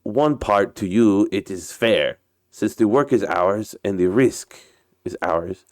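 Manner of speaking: put-on Russian captain's accented English; story character with a put-on Russian accent. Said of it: "uh, my Russian accent".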